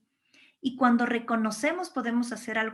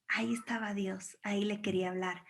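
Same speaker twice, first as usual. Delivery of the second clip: soft, lower near-whisper; hushed reverence; 3 semitones lower, 8 dB quieter, faster than usual. Shown as a demonstration. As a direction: drop to a hush, as if sharing where God speaks. God found in a whisper.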